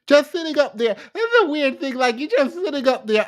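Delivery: accent jumps out mid-rant; Jamaican accent. Real, not acted. Reacting to a livestream clip, slips into Jamaican accent. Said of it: "My Jamaican accent just jumped out of me".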